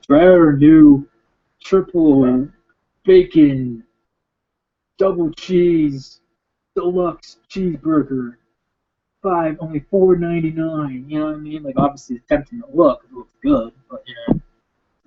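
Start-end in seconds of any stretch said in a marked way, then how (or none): 0.1-11.0 mock TV commercial. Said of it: "all these commercials of".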